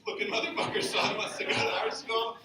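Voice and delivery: lightly voiced dad, dismissive; disapproving dad. Dad talking to mom about art school, disapproving. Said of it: "I overheard my dad talking to my mom".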